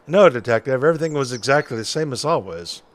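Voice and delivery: quick, lightly voiced noir witness; noir detective. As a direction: rattle it off like an old-timey noir character. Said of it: "detective noir voice".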